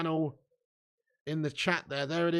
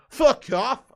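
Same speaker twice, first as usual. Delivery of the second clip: much higher and louder, a sudden furious yell; angry shout; 8 semitones higher, 12 dB louder than usual. Retold or imitated. Linesman shouting back at Robertson, furious loud shout. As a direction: bark it right in his grill. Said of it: "He just goes".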